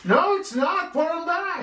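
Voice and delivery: put-on high cranky old man; grumpy old man, insistent. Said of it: "I like that old man voice".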